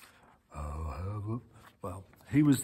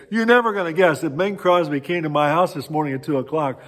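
excited bragging; 3 semitones higher, 7 dB louder than usual. Retold or imitated. Family telling workmates about Bing's night visit, excited bragging. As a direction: blurt out the unbelievable news.

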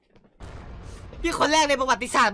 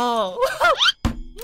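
laughing. Real, not acted. Shocked at opponent's loss.

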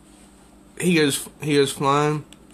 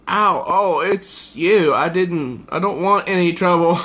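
plea; 4 semitones higher than usual. Acted. Hurt creature pleading.

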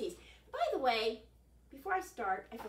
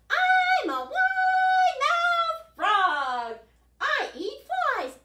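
boastful frog voice; 17 dB louder, much slower than usual. Acted.

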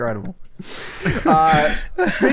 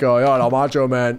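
put-on old wrestler voice; 8 semitones lower than usual. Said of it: "every old wrestler talks just like that".

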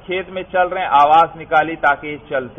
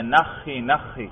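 slow, drawn-out, softer call to a camel; camel kneeling call; 4 dB quieter, much slower than usual. Shown as a demonstration. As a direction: stretch "نخی نخی" out gently as if making a camel kneel. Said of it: "آواز دیتے ہیں". (اونٹ کو بٹھانے کی دھیمی، کھنچی ہوئی آواز)

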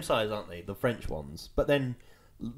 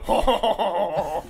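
mocking kids' laughter; 3 semitones higher, 5 dB louder than usual. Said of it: "they all go".

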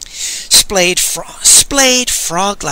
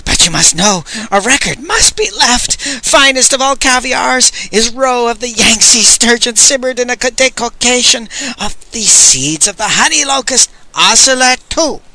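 shouting; 6 semitones higher than usual. Acted. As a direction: call it out across the cell. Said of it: "Master Lee shouted".

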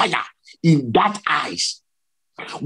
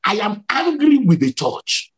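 high, imitated angry pronouncement; angry divine voice; 4 semitones higher than usual. Preacher voices Jesus rebuking the church, retold anger. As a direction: declare displeasure in a moderately raised voice. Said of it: "cover me from his anger".

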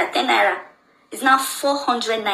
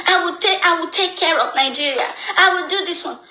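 mocking politicians; 5 semitones higher than usual. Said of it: "We elect leaders with exorbitant promises".

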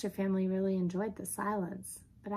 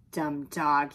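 lower-pitched dismissive remark; scornful burglar; 4 semitones lower, 5 dB louder than usual. Acted. Burglar shuts the dog away, low and scornful.

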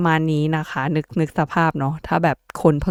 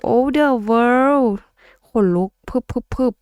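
thrilled gasp; 7 semitones higher, much slower than usual. Real, not acted. Thrilled at the card reading.

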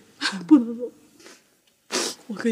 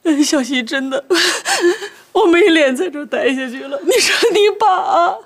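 crying complaint; 3 semitones higher than usual. Acted. Mother complains to daughter, crying.

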